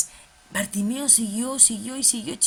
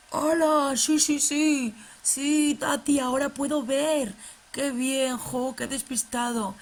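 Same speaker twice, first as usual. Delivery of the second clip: put-on higher, louder cheerful puppet boy; 3 semitones higher, 3 dB louder, slower than usual. Fede the puppet greeting Tati, bright and excited. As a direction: bounce it like an excited kids' puppet.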